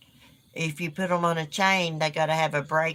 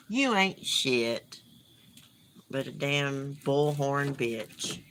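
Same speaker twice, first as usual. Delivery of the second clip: slow, scornful put-down; contemptuous insult; 2 semitones lower, much slower than usual. Real, not acted. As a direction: spit it out slowly with contempt. Insulting a YouTuber.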